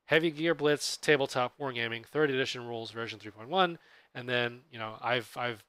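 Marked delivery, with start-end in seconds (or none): 0.1-3.8 slightly slower reading of the full title; slower, careful repeat. Shown as a demonstration. Host repeats the rulebook title for listeners, slightly slower. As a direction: read the title out a little more slowly. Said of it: "I'll say that again slower".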